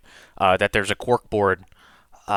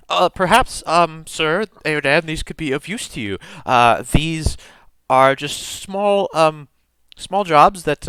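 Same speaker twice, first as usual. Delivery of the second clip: lightly voiced, tentative desk clerk, pitch raised; helpful student clerk; 5 semitones higher than usual. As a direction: offer it politely with hesitant pauses. Game master plays helpful clerk.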